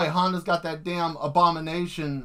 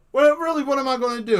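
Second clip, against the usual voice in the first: higher and louder, half laughing at the idea; exasperated outburst; 9 semitones higher, 5 dB louder, faster than usual. Real, not acted. Helpless against a killer robot, higher and louder. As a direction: throw up your hands, higher.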